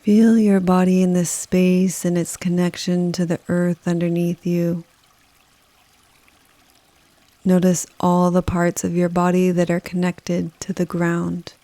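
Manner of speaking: calm, unhurried meditation delivery with long pauses; guided meditation. Acted. Yoga nidra guide leading listeners through a rainforest, calm guided meditation. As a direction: guide the listener gently, leaving space after each phrase. Leads a forest bathing meditation.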